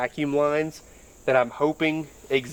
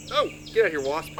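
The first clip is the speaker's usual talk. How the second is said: startled, waving off a wasp; shooing an animal; 3 semitones higher, faster than usual. Real, not acted. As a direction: get away from me, bug. Wasp flying at him.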